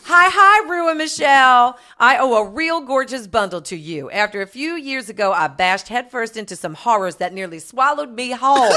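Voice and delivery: hammed-up gay letter-reading voice; lightly camped-up fan letter; Desmond. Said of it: "read it in Desmond's voice".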